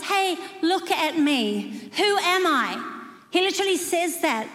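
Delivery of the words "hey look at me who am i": slow, higher, drawn-out challenge; God addressing us. Acted. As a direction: stretch it out like God demanding attention. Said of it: "God says to us".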